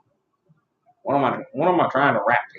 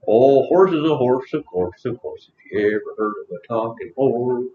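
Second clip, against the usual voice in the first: lightly voiced talking horse; half-sung theme rhyme in a horse voice; Mister Ed. Streamer continuing the horse theme, light impression. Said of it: "I was doing Mister Ed".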